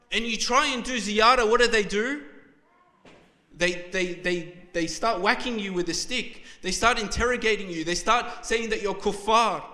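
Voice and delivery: loud, heated preaching rising in anger; emotional outburst. Real, not acted. Preacher to congregation, angry at shrine guards beating pilgrims, loud. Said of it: "I'm getting quite emotional about this".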